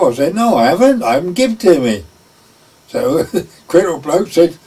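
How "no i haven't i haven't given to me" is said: mild retold protest, pitched up; a touch of a falsely accused servant; indignant denial. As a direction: insist you didn't, in a lightly raised voice. Dick protesting innocence.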